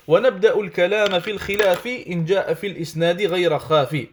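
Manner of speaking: brisk recitation of a didactic poem; Arabic verse recitation. Acted. (récitation rapide de vers arabes)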